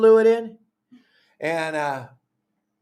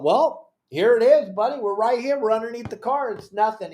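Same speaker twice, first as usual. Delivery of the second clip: higher, cocky I-told-you-so to a friend; teasing told you so; 5 semitones higher than usual. Retold or imitated. Teasing Steve under the car, cocky and higher. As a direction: rub it in, buddy. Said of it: "And I'm going".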